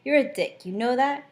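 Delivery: embarrassed retort. Acted. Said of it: "Blushing or trying to hide my embarrassment".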